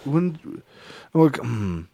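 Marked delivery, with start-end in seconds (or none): none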